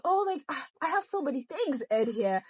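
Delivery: put-on southern accent, not quite landing; attempted southern accent. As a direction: try on a light southern accent. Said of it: "trying to do a southern accent".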